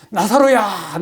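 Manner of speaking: drawn-out retold summons; loud call. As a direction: call out the name as if to a crowd. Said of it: "큰 소리로".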